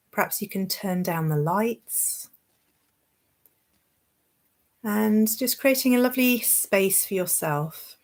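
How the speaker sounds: gentle guided meditation, long pauses; guided relaxation. Real, not acted. Yoga teacher settling listeners in, guided relaxation. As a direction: ease listeners into rest, phrase by phrase.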